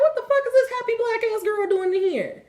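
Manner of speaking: very high-pitched, incredulous mimicry; mocking imitation. Storyteller voicing the man offended by her shining, mocking imitation. Acts out the offended man's reaction.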